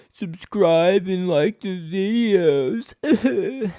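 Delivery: slow, high mock YouTuber plea; sellout YouTuber voice.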